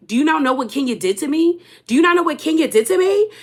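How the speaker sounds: lightly imitated heated challenge; coming in hot. Britt challenges Angela about what Kenya did, coming in hot. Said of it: "you coming in real hot".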